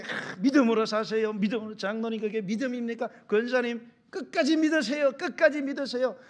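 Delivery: loud, high re-enacted preaching; forceful exhortation. Pastor urging elders and deaconesses to believe, forceful exhortation.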